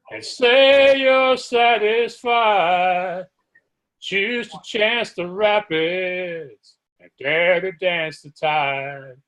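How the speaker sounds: slow, measured poem reading over music; poem recital. Acted. Host opens the show reciting a poem, slow and measured. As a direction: recite it slowly, weighing each line.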